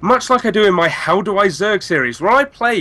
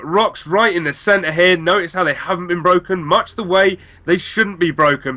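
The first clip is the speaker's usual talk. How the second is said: Justin Browder impression. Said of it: "Cast in the way that Justin Browder would".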